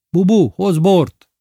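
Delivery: high, loud, slow call toward the house. Acted. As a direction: summon Bubu from inside. Lili calling into the house. (hangos kiáltás a házba)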